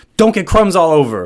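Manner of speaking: mock firefighter yell. Retelling a firefighter scolding a patient over crumbs: imitating firefighter yelling. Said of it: "He started yelling at me".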